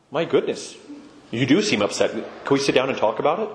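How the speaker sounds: calm, measured response to someone upset; gently de-escalate at an ordinary pitch. Shown as a demonstration. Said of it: "Just by having that calm voice".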